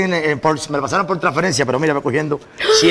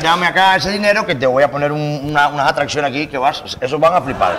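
put-on Spain Galician accent pitching a deal; Galician Spanish accent. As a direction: hustler selling in a Galician accent. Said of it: "hablando con el acento gallego ridículo ese". (acento gallego de buscavidas)

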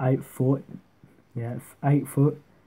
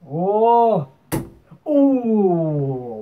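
excited; 7 semitones higher, 8 dB louder than usual. Real, not acted. Big score lands.

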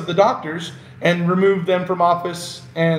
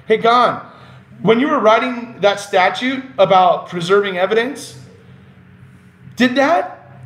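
sarcastic; 4 semitones higher than usual. Acted. Mocking question to official Gahn.

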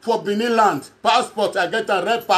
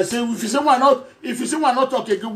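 laughing while talking. Real, not acted. Teased, laughing at being laughed at.

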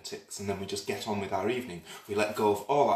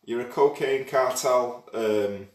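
posh accent; 3 semitones higher, 4 dB louder, slower than usual. Shown as a demonstration. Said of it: "teach you to speak posh?".

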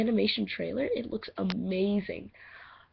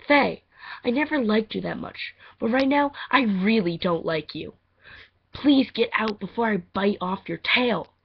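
threatening audition line; 2 semitones higher, 7 dB louder than usual. Acted. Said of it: "Okay, first line".

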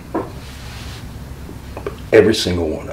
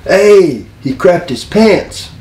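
higher-pitched mock heckle; crowd heckler; 9 semitones higher, slower than usual. Someone in the crowd behind the wrestler, heckling. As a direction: call it out like a spectator. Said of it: "somebody says in the crowd behind me".

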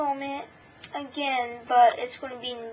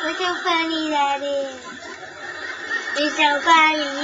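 excited laughing; 7 dB louder than usual. Real, not acted.

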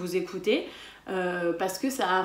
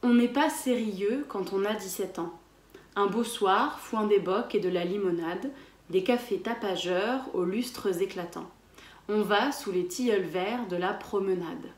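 measured alexandrine reading; poem recital. Shown as a demonstration. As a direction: read each line evenly for repetition. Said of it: "je vous le lis en entier".

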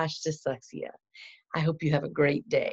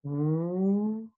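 W sound demo. Shown as a demonstration. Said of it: "Watch me make both sounds".

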